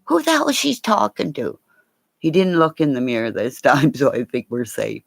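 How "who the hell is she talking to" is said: a bit higher, louder dog voice; voicing the dog. The guard dog wonders who she talks to, lightly higher dog voice. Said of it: "got my guard dog going".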